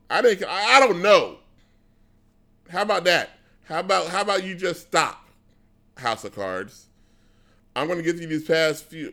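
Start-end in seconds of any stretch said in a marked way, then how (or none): 0.1-6.9 high, loud burst of exasperation; exasperated mock outburst. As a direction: throw your hands up, voice jumping high. Mock argument, exasperated with show.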